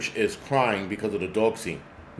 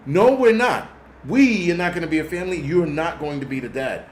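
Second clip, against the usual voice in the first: sudden high, loud retort, then fast; real exasperated rebuttal; indignant outburst; 4 semitones higher, 3 dB louder than usual. Real, not acted. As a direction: snap back at the screen in disbelief. Rant answering the TV character.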